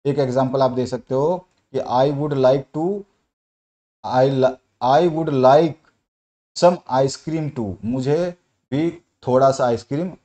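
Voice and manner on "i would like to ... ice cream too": slow, word-by-word example sentence; teacher dictating an example; dictation reading. Acted. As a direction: read the sentence out slowly for students to note down.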